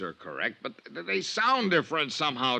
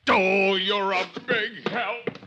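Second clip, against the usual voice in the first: high, pleading whine; whiny plea; 7 semitones higher than usual. Acted. Arrested salesman whining at Dollar for help. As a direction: beg a friend not to walk away.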